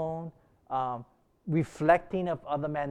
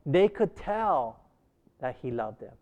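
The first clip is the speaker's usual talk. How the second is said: melodious. Shown as a demonstration. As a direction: sing it out with melody. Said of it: "how he modulated his voice and made a melody".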